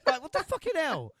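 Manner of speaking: high, loud outburst; mock rant at the referee; hammed-up outrage; imitating an angry fan. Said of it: "just imagine Shay going".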